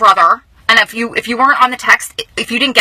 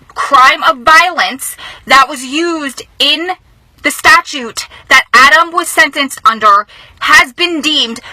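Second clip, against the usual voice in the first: fighting back tears; 3 semitones higher, slower than usual. Real, not acted. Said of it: "I'm trying not to cry".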